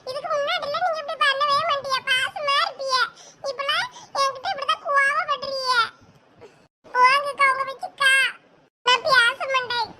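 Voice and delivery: acted crying complaint; tearful sulking. Child guest accuses the older girl of changing, tearful and sulky. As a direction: sulk through tears like a hurt child. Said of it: "ஏன் எதுக்கு அழுவுற?".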